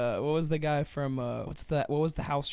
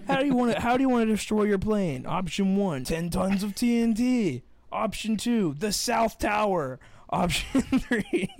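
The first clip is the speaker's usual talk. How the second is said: much higher, louder hammed-up host; game show host; 8 semitones higher, 6 dB louder than usual. Pretending to be the host offering grim options, loud and high. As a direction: pitch it like an over-the-top TV host.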